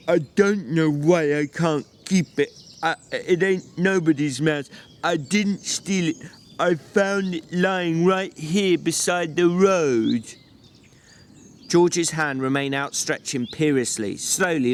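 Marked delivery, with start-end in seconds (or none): 0.1-10.2 put-on slow, childlike, a touch tearful; voice breaking a little. A narrator's reading. Lenny pleading to keep the mouse, voice breaking a little. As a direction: protest through a hint of tears. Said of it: "His voice broke a little".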